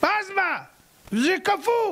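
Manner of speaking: put-on high-pitched objection from a boy; protesting child. Boy balking at the freezing mikveh, protesting.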